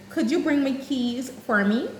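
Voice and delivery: a politely formal ask to a student; polite formal request. Shown as a demonstration. Teacher asking a student, politely formal. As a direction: ask it neatly, like a teacher to a pupil. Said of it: "I can use a formal tone".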